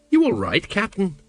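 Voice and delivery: mildly concerned, rising query. A narrator's reading. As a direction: check on the boss with some worry. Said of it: "said Colon, all concerned".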